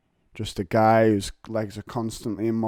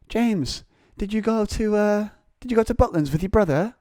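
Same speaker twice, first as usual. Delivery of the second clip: high, sing-song teacher's voice; imitating the teacher; 10 semitones higher than usual. Teacher quizzing James about his holiday, high mock voice. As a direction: ham up the nosy teacher. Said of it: "and then she goes".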